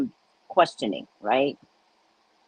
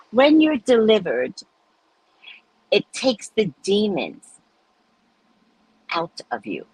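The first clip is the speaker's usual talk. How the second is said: dramatic. Retold or imitated. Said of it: "in a very dramatic way".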